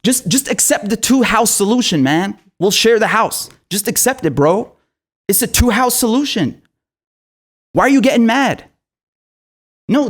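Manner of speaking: mock the occupier as a breezy bro. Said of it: "That's exactly what you sound like".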